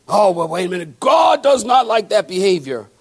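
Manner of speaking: mock outrage. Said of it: "we look at somebody".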